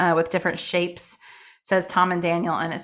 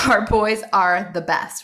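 loud, drawn-out mock-British diary reading; poor British accent; 4 dB louder, slower than usual. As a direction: read it out in a hammed-up British accent. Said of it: "go with the British accent today, the poor British accent".

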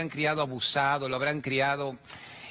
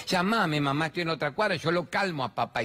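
mocking the kids; 4 semitones higher than usual. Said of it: "ya no deben vivir con vos".

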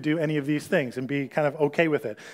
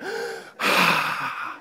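sigh. Acted. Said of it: "you go home tonight and you hear".

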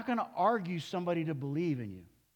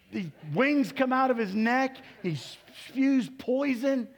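hammed-up monster tale, higher and louder; dramatic climax; 8 semitones higher, 6 dB louder than usual. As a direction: paint the attack big for the crowd. Lizard attacks in retelling.

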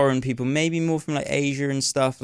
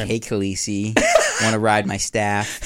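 slower, giggling through a cheesy American line; laughing mock American. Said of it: "it would sound a bit weird".

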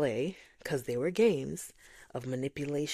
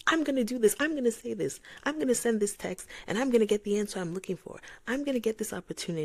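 stubborn determination; 7 semitones higher, faster than usual. Retold or imitated. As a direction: insist you'll do it your way. Retold stubborn self-talk.

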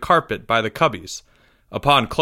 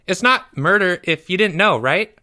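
put-on high boy voice seeking reassurance; anxious schoolboy; 6 semitones higher than usual. A narrator's reading. Pupil justifying himself to teacher, anxious high voice. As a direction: plead your case like a nervous pupil.

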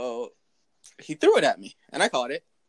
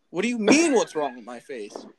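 surprised; 5 dB louder than usual. Retold or imitated. Confused at dad's question.

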